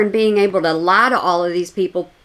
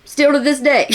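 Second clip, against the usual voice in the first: amused; 3 semitones higher than usual. Real, not acted. Amused jab at the clip.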